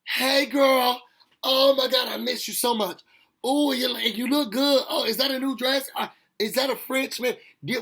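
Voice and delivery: put-on high, loud, gushing girlfriend greeting; overexcited friend fawning over her; gushing baby mama. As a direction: greet her like a long-lost best friend, all squeals. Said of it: "the other baby mama comes in".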